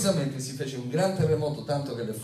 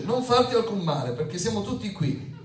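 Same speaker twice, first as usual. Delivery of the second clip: high, raised-voice cry of warning; calling out loudly; 9 semitones higher, 3 dB louder than usual. A narrator's reading. Paul stops the jailer harming himself, crying out high. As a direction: read it as an urgent high-pitched call. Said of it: "Paolo gridò ad alta voce".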